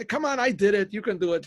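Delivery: acted-out nudge to give in; coaxing. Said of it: "the man is also working on him".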